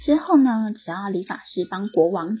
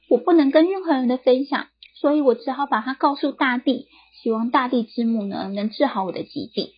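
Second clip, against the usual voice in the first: miserable; 4 semitones higher than usual. Acted. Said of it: "哭丧着脸说".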